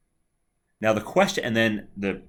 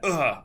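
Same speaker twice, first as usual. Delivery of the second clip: imitated pained grunt; 5 semitones higher than usual. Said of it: "He starts to make noises like that".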